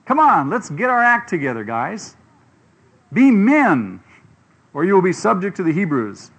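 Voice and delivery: pep talk. Retold or imitated. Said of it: "Some cheerleader stands up and says".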